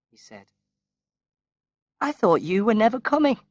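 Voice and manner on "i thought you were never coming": higher, bright and eager, glad he has come; brightly. A narrator's reading. Mother greets her son at last, brightly and higher. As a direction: lift the voice up brightly on every word. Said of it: "she answered brightly".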